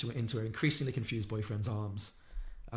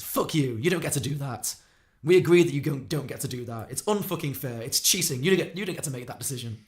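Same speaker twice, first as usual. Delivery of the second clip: loud, higher acted tirade; hammered-up indignant outburst, punching the words; furiously angry; 3 semitones higher, 8 dB louder than usual. Harry accusing Perry of cheating, furiously angry. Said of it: "Harry gets furiously angry".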